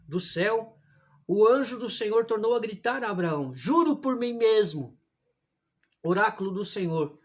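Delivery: measured, declaimed Bible reading; solemn story narration; scripture reading. A narrator's reading. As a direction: read the passage aloud to the congregation with deliberate phrasing. Reads Scripture aloud.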